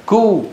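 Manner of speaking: كو with a front k and long vowel; correct light kaf. Shown as a demonstration. Teacher isolates the right syllable, light kaf. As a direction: hold كو, k light and forward. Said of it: "وليس قشطت".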